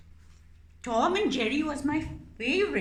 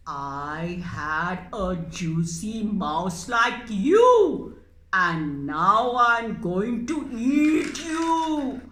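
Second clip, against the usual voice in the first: slow, louder menacing cat; hungry cat threat; 2 semitones lower, 6 dB louder, slower than usual. Acted. Cat puppet threatening the mouse, slow and louder. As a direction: drag out the threat.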